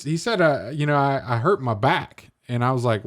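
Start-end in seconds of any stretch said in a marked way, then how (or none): 1.0-2.3 lightly imitated East Tennessee man; a hint of Eastern Tennessee twang; Eastern Tennessee accent. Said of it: "guy that was from Eastern Tennessee".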